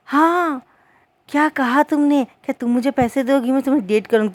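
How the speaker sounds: high, loud mock outrage at her offer; mock shocked. Wing mock-shocked at Wenching's dating money jab, high and loud. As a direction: squeal it out in pretend disbelief.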